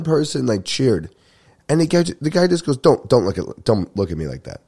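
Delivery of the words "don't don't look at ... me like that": imitated warning to back off; retold threat breaking into a laugh; mock threatening. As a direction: warn someone off, half in earnest. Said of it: "He just starts threatening this guy".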